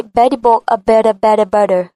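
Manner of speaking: American accent, "Betty" and "better" with a D-like T; flat American accent. Shown as a demonstration. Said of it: "Mà cô sẽ nói giọng rất bằng". (giọng Mỹ, "Betty" đọc như "Beddy")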